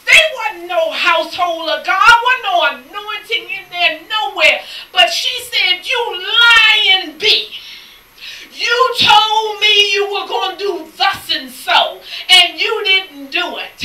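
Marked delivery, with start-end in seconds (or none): 5.9-13.8 slow, accusing mock yell; imitating a woman chewing someone out; angry scolding. Quoted quarrel on the bus.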